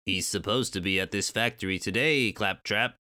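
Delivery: lightly voiced giant bumblebee; bumblebee character. Giant bumblebee asking a Kremling, lightly voiced creature.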